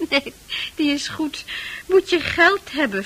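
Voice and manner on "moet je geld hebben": mocking echo. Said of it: "vraagt hij".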